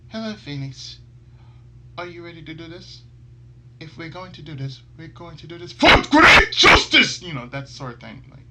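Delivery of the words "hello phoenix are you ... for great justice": 1 spirit voicing. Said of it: "she can draw any kind of voice".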